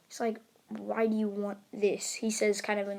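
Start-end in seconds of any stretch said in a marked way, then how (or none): 0.7-2.1 mildly annoyed, held-back question; pissed-off. Acted. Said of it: "a pissed-off tone".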